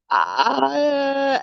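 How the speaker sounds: a high, stuck "Ah" of a mind gone blank; frozen blank. Retold or imitated. An American in Italy, brain frozen, blank high "Ah". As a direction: let the sound hang, stuck for words. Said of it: "my brain just froze".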